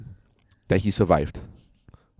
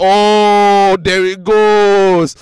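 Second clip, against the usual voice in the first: higher, louder mocking commentary; sarcastic inner comment; 10 semitones higher, 7 dB louder, slower than usual. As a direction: scoff at the driver's privilege. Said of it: "I was like".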